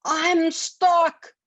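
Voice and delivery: high, loud goblin cry of alarm; stuck goblin yelling high; goblin shouting. Acted. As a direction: yell it as the trapped goblin. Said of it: "the goblin shouted".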